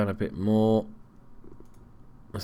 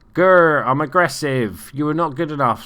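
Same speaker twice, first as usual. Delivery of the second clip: hammed-up growl, then a half-hearted scolding; mock aggressive; 4 semitones higher, 7 dB louder than usual. Manager giving his players a rollicking, mock angry. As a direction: play at being a fierce manager, louder. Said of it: "doesn't sound aggressive though".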